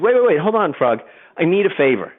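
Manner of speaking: a sly scorpion stopping the frog; pleading scorpion. Acted. Scorpion voiced in fable.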